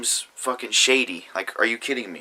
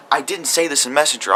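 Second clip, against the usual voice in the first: angry; 5 semitones higher, 6 dB louder than usual. Real, not acted. Defending himself in a heated rant.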